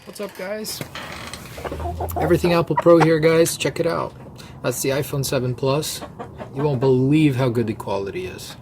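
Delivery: high, fast hyped YouTuber intro; clickbait video narrator. Pretend. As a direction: pump it up like a clickbait channel host. Hyped YouTube-style intro bit.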